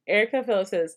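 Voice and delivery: usual speaking voice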